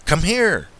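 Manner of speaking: high-pitched call to the dogs; yelled call. A narrator's reading. Narrator yells for dogs by the shed, high calling yell. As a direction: call out high, yelling without full volume. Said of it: "so I yell".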